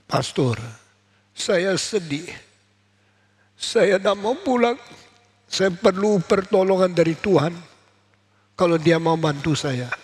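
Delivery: a grieving mother begging for help, voice climbing; mother pleading in tears. Acted. Mother Monica pleads with priest.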